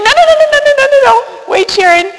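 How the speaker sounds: high, loud, rapid string of no's; urgent protest. Retold or imitated. Priest urgently stopping Sharon, high loud protest. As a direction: cut her off before she quits.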